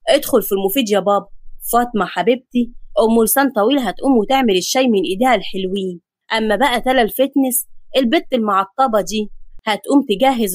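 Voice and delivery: a touch of male authority, pitched a little down; hint of a bossy household voice; lightly voiced bossy man. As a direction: hand out chores like the man in charge. Voices Khaled giving out chores.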